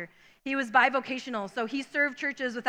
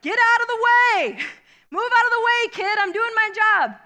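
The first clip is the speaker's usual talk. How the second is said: gruff driver; 8 semitones higher, 6 dB louder than usual. Retold or imitated. Bulldozer driver yelling at kid to move, raised voice. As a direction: play the annoyed worker shouting down.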